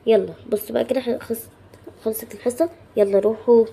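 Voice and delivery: loud pretend teacher's command; teacher's dismissal. Teacher telling the class to go when the lesson ends, loud command. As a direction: send the pupils off at full volume.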